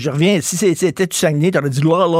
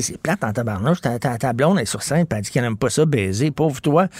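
lower, softer mock buddy voice; a lower, softer imitation of the boyfriend, slowing at the end; imitating the boyfriend; 4 semitones lower, 3 dB quieter than usual. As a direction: mimic a guy grumbling to his friends. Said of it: "il doit dire".

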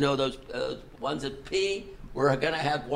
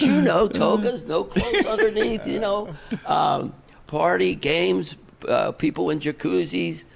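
chuckling while quoting a singer's party plan, higher and slower on the last words; laughing through the quote; 5 semitones higher than usual. Retold or imitated. Retelling a singer's toga party pitch to the podcast hosts, laughing.

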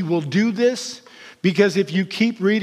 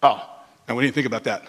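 sheepish disciples; 8 semitones lower, faster than usual. Acted.

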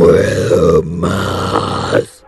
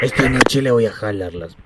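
possessed threat; 5 semitones higher, 6 dB quieter than usual. Acted. Amenaza del poseído.

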